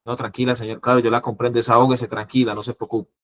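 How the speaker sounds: gently calm an upset client; soothing. Shown as a demonstration. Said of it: "Debe ser condescendiente".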